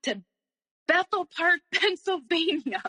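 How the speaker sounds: high-pitched retold yell breaking into a laugh; half-laughing imitation of his yelling; mock yell. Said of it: "yelling at me".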